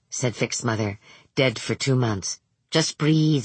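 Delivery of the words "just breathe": put-on light Indian accent. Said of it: "She said it in a light Indian accent".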